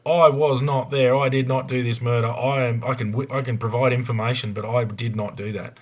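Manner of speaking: an innocent man pleading his case; emphatic denial. Retold or imitated. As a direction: protest it clearly, word by word. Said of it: "I'd be singing like a bird to go".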